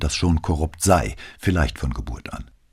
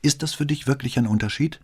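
surprised; 9 semitones higher, faster than usual. Acted. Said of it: "fragte sie verwundert".

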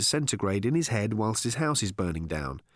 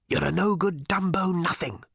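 a creature's sneering whisper; demonic whisper; 5 semitones higher than usual. A narrator's reading. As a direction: hiss it out like a creature. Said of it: "whispered the creature".

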